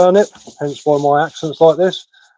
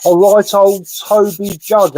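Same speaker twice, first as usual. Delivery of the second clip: Cockney saying; 5 semitones higher, 3 dB louder, slower than usual. Retold or imitated. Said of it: "as they say".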